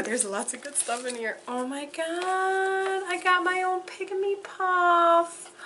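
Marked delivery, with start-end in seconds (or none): 1.5-5.5 high, drawn-out coo of delight; real squeaky-high delight. Real, not acted. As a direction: stretch it out high, melting with joy. Discovers her Pygmy Puff.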